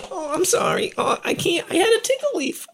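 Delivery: very high, giggling apology; breathless laughter. Acted. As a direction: laugh through the words, barely able to talk. Gnome still laughing from tickle leaf.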